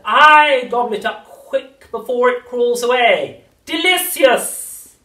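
high, slow crone voice; witch voice. A narrator's reading. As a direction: cackle it like an old witch.

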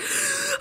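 high, sudden gasp; re-enacted panic gasp; sharp panicked gasp. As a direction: suck in air as if panic hits. Re-enacting her panic attack.

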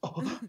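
exaggerated three-syllable anime gasp; three-part anime gasp. Shown as a demonstration. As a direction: gasp twice in, once out. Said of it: "two in and one out".

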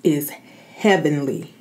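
very slow, drawn out, blissful; slow savoring. Real, not acted. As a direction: savor every word slowly. Savoring the noodles.

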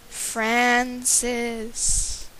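ghostly howl. Acted. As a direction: call the name like a ghost. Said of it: "the creature howled in a ghostly voice".

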